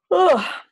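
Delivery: big yawny "oh"; high, falling yawn sigh; yawn release. Real, not acted. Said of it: "I can feel the yawns building".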